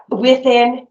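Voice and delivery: slow, deliberate dictation; dictating. Shown as a demonstration. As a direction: spell it out slowly for the record. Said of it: "would you read that back to me?".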